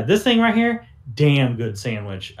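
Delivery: a hint of a folksy man showing off his sandwich. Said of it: "he goes".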